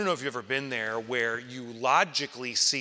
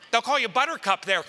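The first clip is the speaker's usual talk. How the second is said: much higher, louder, laughing through it; laughing tease; 12 semitones higher, 9 dB louder than usual. Retold or imitated. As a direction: crack up while teasing. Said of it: "he's, like, joking".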